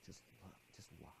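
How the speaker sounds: hushed, low whisper; little inner voice. Retold or imitated. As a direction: whisper it as a small voice within. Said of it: "this little voice said".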